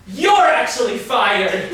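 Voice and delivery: loud, slow gloating firing; triumphant shout. Acted. Boss firing the intern for real, slow gloating shout. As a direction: savour every word of the firing.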